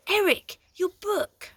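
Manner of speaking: high, loud triumphant call; triumphant shout. A narrator's reading. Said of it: "Nine shouted triumphantly".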